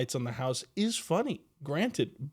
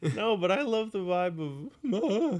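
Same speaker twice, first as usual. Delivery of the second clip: voice cracking, breaking mid-word on "ma"; 7 semitones higher than usual. Joking with a co-host, the speaker's voice suddenly cracks: voice cracking. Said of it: "You hear my voice crack?".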